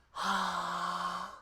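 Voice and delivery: flat breathy ha; a plain airy ha; simple ha. Shown as a demonstration. Coach starting the pitch ladder with ha. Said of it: "Just a simple".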